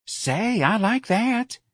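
high, delighted dancer voice; eager high approval; enthusiastic. A narrator's reading. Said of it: "Darlene said enthusiastically".

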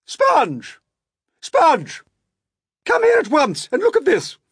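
high, piercing shout; excited shouting. A narrator's reading. Aunt summoning her sister to see the peach, shouting. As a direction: shout urgently for your sister. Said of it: "Aunt Spiker was shouting".

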